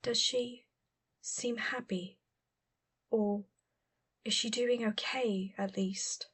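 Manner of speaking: hushed and slow, near a whisper; quiet, anxious question about her sister; low voice. Acted. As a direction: ask it softly, afraid of the answer. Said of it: "spoke again in a low voice".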